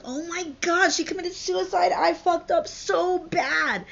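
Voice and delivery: high, loud melodramatic despair; acted anguish. Romeo hearing Juliet is dead, hammed-up anguish. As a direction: wail with regret, dragging out the end.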